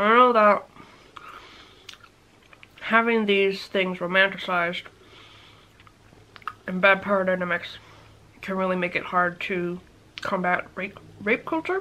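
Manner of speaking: talking with mouth full while eating. Speaking on a serious subject while eating, talking with mouth full. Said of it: "talking about a very serious subject with my mouth full".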